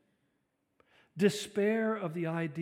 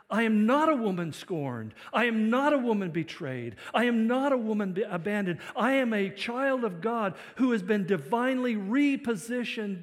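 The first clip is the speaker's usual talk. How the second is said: loud, raised, defiant testimony; emphatic declaration; 5 semitones higher, 8 dB louder than usual. Acted. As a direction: proclaim it boldly, phrase after phrase. Voices woman declaring her new identity.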